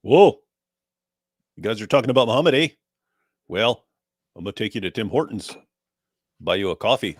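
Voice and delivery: cheery Canadian caller with eh; friendly mock Canadian. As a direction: play a polite Canadian offering coffee. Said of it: "it should have been".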